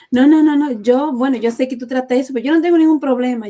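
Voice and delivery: loud, mock-insistent patient denying everything; insistent denial. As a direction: play the patient who swears nothing is wrong, loudly. (paciente que lo niega todo, en voz alta e insistente)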